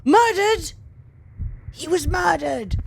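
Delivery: high, loud, slow disbelief; a startled loud gasp of realisation; shocked exclamation. Real, not acted. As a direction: react like the news just hit you. Ghost says murdered.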